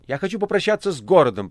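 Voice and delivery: shouting. A narrator's reading. The Master to Azazello on horseback, calling out. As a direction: call it across to a rider. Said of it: "прокричал мастер Азазелла".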